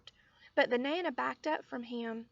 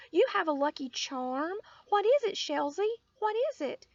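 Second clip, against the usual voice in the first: higher, louder, breathless eagerness; excited little girl; 6 semitones higher, 5 dB louder than usual. A narrator's reading. Lucille pestering Sheldon about the charm, loud excited girl. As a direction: beg to know, pitched up and loud.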